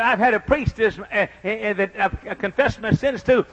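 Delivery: hesitant imitation of a southern drawl, with uhs; little southern drawl. New convert confessing to the church, imitated southern drawl. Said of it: "in a little southern drawl".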